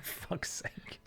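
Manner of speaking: real exasperated mutter under the breath; fed up with the boulder, muttering; muttered curse. Real, not acted. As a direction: curse quietly to yourself. Frustrated with a janky game.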